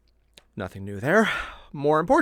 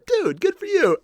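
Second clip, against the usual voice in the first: cheering him on; 14 semitones higher, 3 dB louder than usual. Retold or imitated. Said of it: "I was like".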